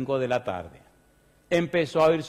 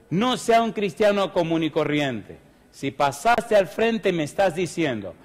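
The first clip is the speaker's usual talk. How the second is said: louder, driving preacher's appeal; fervent altar call; 3 dB louder than usual. Acted. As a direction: push the call to come forward with fire.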